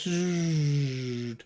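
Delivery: long drawn-out mechanical buzz; blades winding down. Acted. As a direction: imitate spinning blades slowing. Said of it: "slowly the blades".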